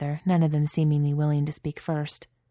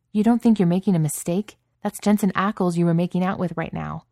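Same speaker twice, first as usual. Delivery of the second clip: raised, higher voice, pushing back hard; incredulous anger; 3 semitones higher, 5 dB louder than usual. Acted. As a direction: challenge him, loud and disbelieving. Chad argues with Jared.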